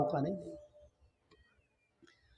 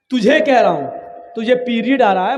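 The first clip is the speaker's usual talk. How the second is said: normal talking voice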